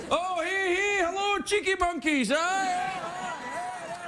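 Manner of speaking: high, silly puppet voice. Acted. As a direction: squeak it like a cheeky puppet. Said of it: "let's try it".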